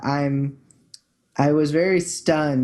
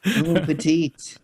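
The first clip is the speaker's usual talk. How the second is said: mock Cajun French slowed; slower than usual. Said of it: "work on my Cajun accent personally".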